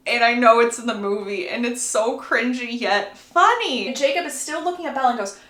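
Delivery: usual speaking voice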